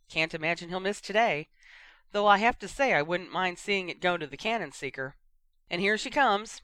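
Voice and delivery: upbeat play-by-play commentator; sports commentator. Acted. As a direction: call the teams onto the pitch. Radio commentator calls match.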